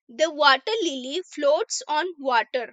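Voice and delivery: slow, careful English read for learners; teacher reading an example sentence slowly; slow reading aloud. Shown as a demonstration. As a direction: read each word out slowly for the class.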